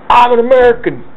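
high, loud, frantic protest; panicked pleading. Retold or imitated. Facing a pistol, pleading panicked and high. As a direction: blurt it out to save your skin. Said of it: "And I'm going".

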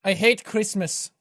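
hammed-up German-accented quack doctor; thick mock-German doctor voice; mad German doctor. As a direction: play a theatrical German surgeon. Same German doctor character.

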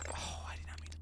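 soft whisper of regret; whispered oops. Real, not acted. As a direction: breathe it out under your breath. Accidental action in game.

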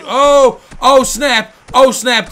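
loud, high whoops of triumph; excited yell. Real, not acted. Gamer yelling at the screen in triumph, excited. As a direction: shout it out, thrilled. Drawing blood in boxing game.

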